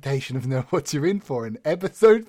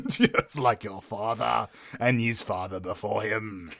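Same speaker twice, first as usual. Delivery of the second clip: breathy vintage purr; 2 semitones lower than usual. Acted. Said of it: "when the voice starts happening".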